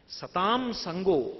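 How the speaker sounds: drawn-out intoning of సతాం సంగో, each syllable held; slow recitation. Acted. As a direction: intone the maxim slowly, like a quoted scripture. Repeated Sanskrit maxim, slowly intoned. (సతాం సంగో నెమ్మదిగా సాగదీసి పఠించడం)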